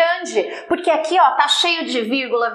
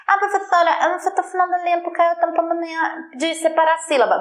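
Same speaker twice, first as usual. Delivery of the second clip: high-pitched mock pupil voice; whining student excuse; 6 semitones higher than usual. Student excusing the short line to the teacher, mock whining. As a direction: plead your excuse in a high put-on voice.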